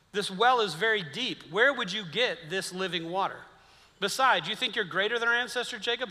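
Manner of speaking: voicing the Samaritan woman pushing back; woman at the well. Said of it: "exactly how she says it".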